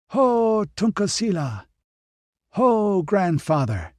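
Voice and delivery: high ringing call; crying out. A narrator's reading. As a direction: call out together to the spirits. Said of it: "The eight men cried out together".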